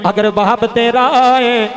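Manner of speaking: imitated plaintive plea in a slow preacher's chant; retold tearful plea. Wife reassuring her husband about his father, tearful chanted plea. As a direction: chant the weeping wife's pledge, drawing words out. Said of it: "ਰੋ ਕੇ ਕਹਿਣ ਲੱਗੀ".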